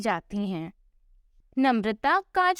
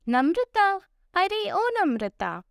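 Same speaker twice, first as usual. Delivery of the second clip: calling out; 5 semitones higher than usual. Acted. Mother-in-law calls for daughter-in-law.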